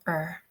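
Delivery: "er" with a strong R, as heard in Ireland; Irish pronunciation. Shown as a demonstration. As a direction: sound the R clearly in "er". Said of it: "in Ireland, you will hear".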